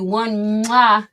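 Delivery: a single smacking kiss; kiss sound. Shown as a demonstration. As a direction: blow a quick kiss. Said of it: "that's a kiss".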